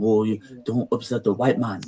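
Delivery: a lightly put-on timid voice, unlike his own; mock timid voice. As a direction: mimic a scared, cautious insider. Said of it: "That's how they think".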